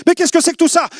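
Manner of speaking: high, loud shocked cry; shocked outcry. Retold or imitated. Mother screaming in shock at the witch falling. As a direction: cry out at what she sees.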